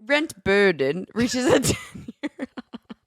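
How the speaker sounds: put-on slow British accent breaking into laughter; amateur British headline read, cracking up; attempted British accent. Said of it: "you kinda did it".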